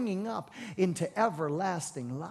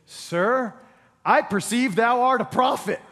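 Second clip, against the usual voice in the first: startled woman; 6 semitones higher, 7 dB louder, slower than usual. Retold or imitated. Woman answering Jesus.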